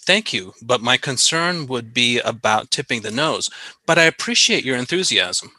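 measured courteous reassurance; kinder gentler way. Shown as a demonstration. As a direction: say it gently, like soothing a colleague. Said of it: "rephrase that in a kinder, gentler way".

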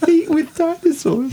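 put-on laughing Jamaican accent. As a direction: say it in a Jamaican lilt. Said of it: "Did I say that in a Jamaican accent?".

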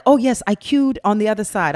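lightly put-on British accent; a hint of a London accent answering about the queue; mother imitating her fake accent. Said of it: "speak like I was from London".

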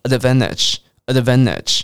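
"advantage" with no T, like advan-idge; relaxed, dropped T. Shown as a demonstration. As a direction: let "advantage" glide from N to ending, T silent. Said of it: "消音就可以让你念得更放松".

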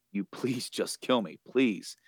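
pleading that trails away; voice trailing. Retold or imitated. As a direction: lightly act out a fading, spent plea. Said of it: "And his voice trails".

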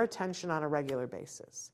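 breathy whispered aside. Acted. Trainer telling parents the plan, whispered. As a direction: drop to a whisper on the tail of the sentence.

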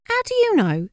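high-pitched suspicious question; alarmed suspicion. A narrator's reading. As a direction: demand it, taken aback and wary. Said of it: "through intrigue to suspicion".

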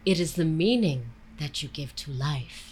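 imitating dad's Indian accent; thick Indian accent. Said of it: "he puts on a thick Indian accent".

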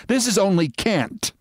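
high-pitched protest; demanding. A narrator's reading. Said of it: "she demanded".

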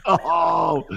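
high, laughing "oh"; playful lament; mock wail. Retold disappointment at leaving set.

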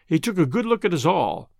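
plain reading voice

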